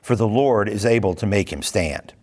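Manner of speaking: steady, measured Bible reading; scripture reading. Acted. Teacher reading scripture aloud to the class in an even, measured voice. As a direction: read the passage aloud to the class, evenly.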